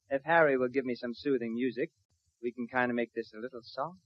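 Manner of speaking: asked to sound soft and sweet, croons quietly; soft and soothing. Acted. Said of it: "do something soft and sweet and soothing".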